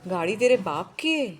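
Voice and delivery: loud angry taunt; angry shout. Acted. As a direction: bark it at him. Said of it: "बाबू चिल्लाया".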